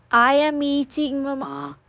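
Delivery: proud little boy, lightly voiced. A narrator's reading. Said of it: "Halston said proudly".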